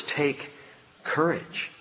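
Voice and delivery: soft, gentle reassurance; softly spoken encouragement; tender take courage. Shown as a demonstration. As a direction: say it like a comfort. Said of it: "Just to hear him say those two words".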